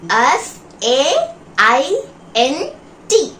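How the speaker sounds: "F A I N T." spelled out slowly, one letter at a time. Shown as a demonstration. Teacher spells the word for the class, slow letter by letter. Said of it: "Spell the word faint".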